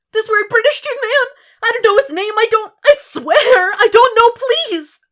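frantic begging, voice cracking; crying thug. Acted. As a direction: swear it through sobs.

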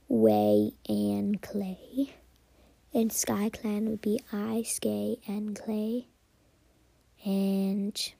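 clan names in Pig Latin, slow and partly whispered. Shown as a demonstration. Podcaster spells out Pig Latin clan names for listeners, slow and hushed. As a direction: sound out each clan name in Pig Latin. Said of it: "I strongly encourage practicing Pig Latin".

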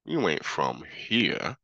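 mock small-town cops sizing up a stranger; suspicious locals. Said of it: "And they're like".

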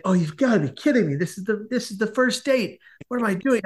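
acted self-reproach climbing in pitch; dismayed disbelief. Man who stained his shirt on a first date, dismayed at himself.

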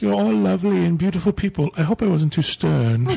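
badly imitated English accent; mock English accent. Host imitating a polite English listener, mock English accent. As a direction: put on a hammy English accent. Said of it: "This is my English accent".

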